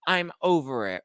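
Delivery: high, loud diva storm-off; hammed-up diva refusing to film; mock diva tantrum. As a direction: sneer it like a diva quitting the scene. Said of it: "All diva".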